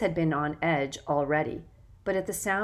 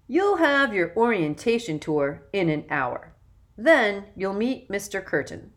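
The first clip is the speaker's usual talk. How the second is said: put-on loud, self-important young man; bossy older boy; 3 semitones higher, 5 dB louder than usual. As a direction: lecture the new kids, puffed up. Jackson instructs new boys.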